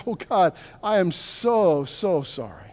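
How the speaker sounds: softening and sinking to a hush on sorry; sorrowful confession. Pretend. Preacher voicing a repentant believer's tender sorry. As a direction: confess it slowly with a breaking heart.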